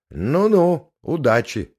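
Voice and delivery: mock her with a sly laugh; snide. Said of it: "залилась ехидными смешками".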